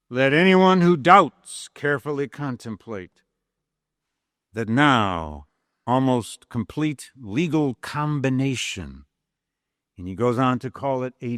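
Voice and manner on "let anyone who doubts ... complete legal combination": measured, slow speech-giving delivery; formal oratory reading. Acted. Lecturer reading Lincoln's speech to class, measured oratory. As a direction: read it as Lincoln addressing a convention. Reads the House Divided speech.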